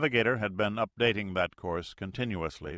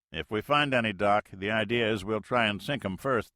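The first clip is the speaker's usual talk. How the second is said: radio pilot; 2 semitones higher, 4 dB louder than usual. Acted.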